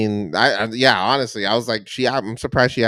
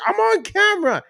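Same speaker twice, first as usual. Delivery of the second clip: very high mock voice; much higher, hammed-up husband protest; imitating confused husband. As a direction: squeak it like a baffled husband. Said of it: "He's like".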